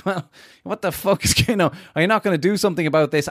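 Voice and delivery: quick laughing outrage; exasperated. Retold or imitated. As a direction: blurt out your disbelief quickly. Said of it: "I'm like".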